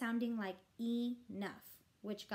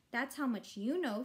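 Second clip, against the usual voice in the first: shouting; 2 semitones higher, 4 dB louder than usual. Acted. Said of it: "Fudge shouted".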